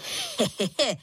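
short falling chuckle; a quick pleased laugh; boy's laugh. Acted. Boy laughs at the big shoes, short chuckle. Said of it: "zasmál se".

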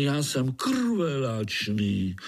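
krvelačný drawn out slow and heavy; slow menace. A narrator's reading. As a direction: savour krvelačný word by word. Gnat boasts menacingly.

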